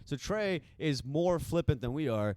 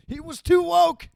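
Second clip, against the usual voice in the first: high, mocking impression of Trey; 11 dB louder, slower than usual. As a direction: squeak it out like a parody. Mocking Trey's view.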